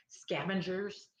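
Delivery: "scavengers" slowed and rising; stressed term. Real, not acted. Naming the sanitation union to viewers, slow stressed "scavengers". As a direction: lean on "scavengers", drawn out. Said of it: "That's the actual term".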